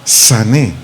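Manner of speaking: "sané" said sa-NÉ, the weight on the final E; stress on the E. Shown as a demonstration. Teacher giving his congregation the Hebrew word, "sané" stressed on the E. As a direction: land the stress on the last syllable of "sané". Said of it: "acento en la E".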